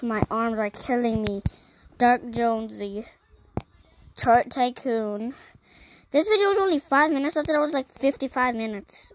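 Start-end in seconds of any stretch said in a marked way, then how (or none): 6.1-9.1 higher, louder mock surprise; mock shock. Real, not acted. Kid fakes shock at video length, higher and louder. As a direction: fake alarm, then own it as a joke. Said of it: "I'm kidding".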